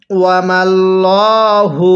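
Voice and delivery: ওয়ামাল্লাহু with a thick, heavy lam, slowly drawn. Shown as a demonstration. Teacher shows students the thick lam in ওয়ামাল্লাহু. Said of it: "লামটাকে মোটা করে পড়তে হবে".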